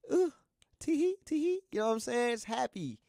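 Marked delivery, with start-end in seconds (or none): 0.1-1.6 high mocking giggle; giggly. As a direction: squeal it like a giddy lover. Mimicking giddy happiness with someone.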